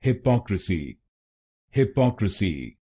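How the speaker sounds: हिपोक्रेसी with stress on the second syllable, पो; correct pronunciation. Shown as a demonstration. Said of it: "इसकी सही pronunciation है".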